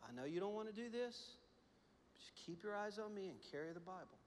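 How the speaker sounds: soft, steady, calming father; reassuring dad. Retold or imitated. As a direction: gently settle a scared child. Father calms his scared son.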